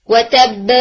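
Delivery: و تب with the lips opening after the ب, so it sounds voweled; و تب with a faulty opening of the lips; wrong qalqala. Shown as a demonstration. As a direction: let the ب in و تب open into a vowel. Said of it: "نہیں".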